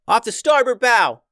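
high, loud lookout call; shouting from crow's nest. A narrator's reading. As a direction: sing out the sighting loudly. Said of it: "yelled Stella".

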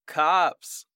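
high-pitched warning call; yelled warning. Acted. Someone at the bonfire warns the crowd, yelled alarm. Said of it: "when someone yelled".

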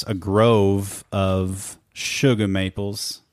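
put-on "shugah maples" in New England accent. Host unable to say it otherwise, New England accent. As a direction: drop the R, New England style. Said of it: "I can't say it any other way".

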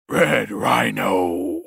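slow, drawn-out mock battle cry; mock scream. Red Rhino diving headfirst at the Kenku, mock scream. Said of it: "as he screams".

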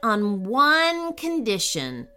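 slow, mildly serious stipulation. Acted. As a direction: spell out the condition slowly and seriously. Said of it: "said Princess Candy seriously".

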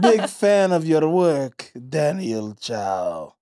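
slow, drawn-out imitation of an Italian lady; lightly voiced Italian lady, savouring each word; mock Italian lady. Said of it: "and she's like".

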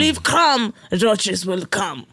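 slow, mildly put-on landlord accent in broken English; landlord's accent. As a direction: lecture about crumbs in the landlord's accent, slowly. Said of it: "the landlord with the accent that I won't do".

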